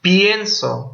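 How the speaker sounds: "pienso" pitched high on PYEN; stress on first syllable. Shown as a demonstration. Teacher shows the shifted stress, "pienso" high on PYEN. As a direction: lift and hit PYEN in "pienso". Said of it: "pasó la tónica para la anterior".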